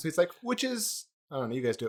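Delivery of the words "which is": put-on high-pitched British accent. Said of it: "he has a British accent".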